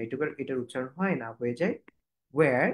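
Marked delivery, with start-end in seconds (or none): 2.3-2.7 "where" starting on a plain w; h-less where. Shown as a demonstration. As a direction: model "where" with the h cut. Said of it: "এই এইচটাকে কাট করে দিবেন". ("where", h ছাড়া উচ্চারণ)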